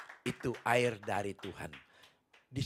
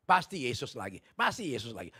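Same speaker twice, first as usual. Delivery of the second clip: mocking taunt; 8 dB louder than usual. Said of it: "dia ngeledek".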